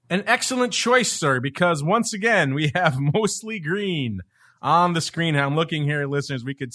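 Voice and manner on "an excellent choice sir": high, haughty waiter voice; snooty waiter. Pretend. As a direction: approve the order like a posh waiter. Host answers guest's menu-like choice.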